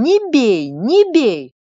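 husband crying out in despair to stop the blows; desperate cry. A narrator's reading. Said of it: "кричит отчаянным голосом".

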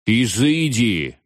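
slow shout, the voice cracking; voice breaking. A narrator's reading. Veniamin banishing the ghosts, voice breaking. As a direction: try to command, but crack. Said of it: "но его голос сорвался".

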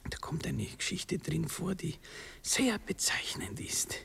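hushed, telling a secret; whispering. Acted. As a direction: whisper the anecdote. Hushed lovers' talk.

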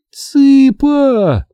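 high shout of the name; scream. A narrator's reading. Sherry screams to the fallen Chicken, high alarmed shout. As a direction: cry out in alarm. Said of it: "закричала Шерри".

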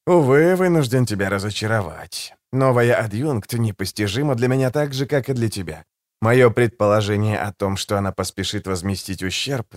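calm, silky and a little mocking; suave assassin voice. Голос Жемчуга, учтивый убийца. (учтивый, вкрадчивый голос убийцы)

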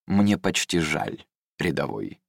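slow, soft and calm; mock pity, quiet and cool. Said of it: "произнёс он спокойно".

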